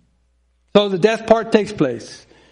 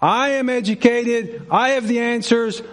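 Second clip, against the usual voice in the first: proud Paul; 3 semitones higher than usual. Pretend. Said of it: "He could have said".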